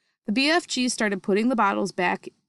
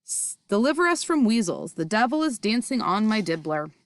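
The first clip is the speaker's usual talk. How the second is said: distressed; 3 semitones higher, 3 dB louder than usual. Acted. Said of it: "more distressed every moment".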